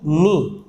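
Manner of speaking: नी drawn out slowly with a silent k; slow model of नी; pronunciation demo. Shown as a demonstration. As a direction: stretch नी long so the silent k is clear. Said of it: "नी देख रहे हैं आप".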